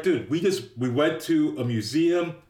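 lightly acted disbelief; mock incredulous protest. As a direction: imitate a friend protesting, item by item. Acts out Ferris protesting to Cameron.

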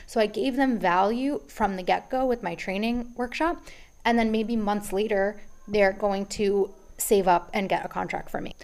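slightly out of breath, pausing for air; talking while short of breath. Real, not acted. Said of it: "I am so out of breath today".

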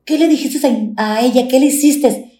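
the son confronting the grandmother, indignant; upset little boy. Retold or imitated. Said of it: "subió y como que dijo". (niño indignado con voz aguda)

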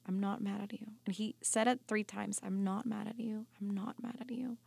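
soft, hushed words of comfort; softly retelling a tender voice saying I'm not mad; gentle reassurance. Retold or imitated. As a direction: say it gently, like a whispered promise.

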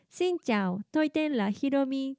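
シンチャオトイテンラヒロミ said true to Vietnamese; faithful Vietnamese pronunciation. Shown as a demonstration. ステージの挨拶として、忠実なベトナム語発音で. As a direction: aim シンチャオトイテンラヒロミ at the Vietnamese sounds. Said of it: "ベトナム語の発音に忠実にしたい".

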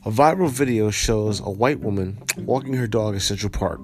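steady, even article reading; news article read-aloud. Acted. Vlogger reading viewers a viral Central Park story, news read-aloud. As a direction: read out the report evenly.

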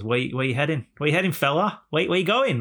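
lightly voiced, pitch climbing with each question; a hint of a chummy passer-by; friendly Canadian driver. Driver pulling up beside a walker, lightly acted friendliness. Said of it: "friendly Canadian".

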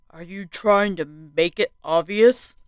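stern scolding man; sharp angry rebuke; berating. A narrator's reading. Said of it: "a man berated".

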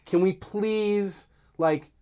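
frustrated appeal to Star Wars fans; yelling. Real, not acted. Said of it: "Stop yelling at them".

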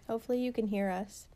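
hoarse, nearly lost voice. Real, not acted. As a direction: talk through a sick, lost voice. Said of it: "I have no voice".

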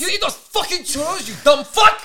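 retelling friend's yell at churro eater, hammed-up; mock yell. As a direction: ham up the friend screaming insults. Retold friend yelling.

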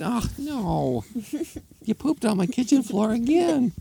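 high falsetto wail; hammed-up woman's complaint; dismayed woman. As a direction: moan it high in despair. Woman upset at poop again.

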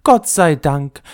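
slow, whispered thank God; the soggy old ball whispering its thanks; relieved whisper. Acted. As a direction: breathe out the relief.

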